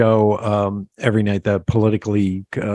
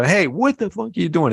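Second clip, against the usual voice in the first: retold angry yell; 6 semitones higher than usual. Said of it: "I would get pissed".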